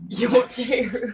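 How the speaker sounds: put-on slow Brooklyn accent echo; a hint of Brooklyn accent. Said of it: "They're also from Brooklyn".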